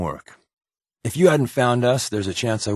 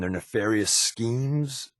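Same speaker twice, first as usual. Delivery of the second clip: hammed-up villain line; 4 dB quieter, slower than usual. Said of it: "I can't believe I just said that".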